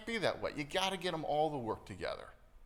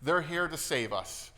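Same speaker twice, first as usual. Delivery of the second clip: mock-overjoyed crowd, raised and loud; 4 semitones higher, 5 dB louder, slower than usual. Everybody welcoming Nick the new guy, mock overjoyed. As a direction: gush loudly as if a saviour has arrived. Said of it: "everybody's just overjoyed".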